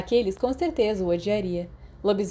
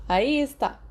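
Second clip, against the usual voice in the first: a bright delighted cheer, higher; pleased the cat accepted him; 6 semitones higher, 3 dB louder, slower than usual. A narrator's reading. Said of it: "aplaudiu encantado". (exclamação encantada, mais aguda)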